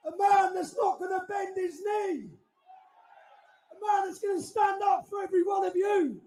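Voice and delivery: announcer hype. Real, not acted. Hype man introduces speaker.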